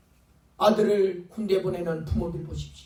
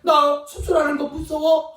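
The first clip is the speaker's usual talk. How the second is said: put-on whining scared child; 5 semitones higher, 4 dB louder, slower than usual. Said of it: "막 떼를 쓰면서 막 울면서".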